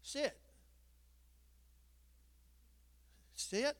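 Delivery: high-pitched command, repeated with pauses; imitating little Linda. Little Linda keeps telling Ruby to sit, high imitated voice. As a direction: keep trying in a small high voice. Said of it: "little Linda, she could say".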